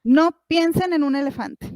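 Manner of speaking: "No" leaned on at the start of "No piensen en un elefante"; stressed command. Shown as a demonstration. The speaker sets parents a thought test, stressing "No". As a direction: deliver it as a teasing test. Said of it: "Imagínense esto".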